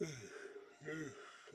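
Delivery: a long, tired yawn; real yawn mid-talk. Real, not acted. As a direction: let a sleepy yawn slip out. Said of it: "I apologize for yawning".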